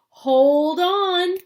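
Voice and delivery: sudden loud high cry; cried out. Acted. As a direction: call out the warning loud and high. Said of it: "cried Mister Wonka".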